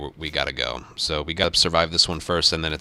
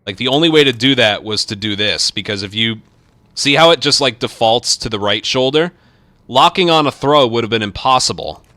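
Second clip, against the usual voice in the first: frustrated ranting; 2 semitones higher, 5 dB louder than usual. Real, not acted. Frustrated explanation of game mechanics.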